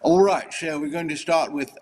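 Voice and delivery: mock British accent through false teeth. Introducing the Mad Libs with joke teeth in, put-on British accent. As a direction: play it up as a British presenter. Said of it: "with a British accent".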